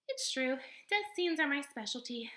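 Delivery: high, lively possum voice, theatrical; a showy little stage actor of a possum; possum character voice. Acted. Possum boasting to the robot, high and theatrical.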